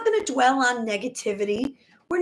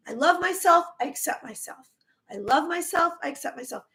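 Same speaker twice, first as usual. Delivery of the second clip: affirmation; faster than usual. Shown as a demonstration. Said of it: "I want you to say".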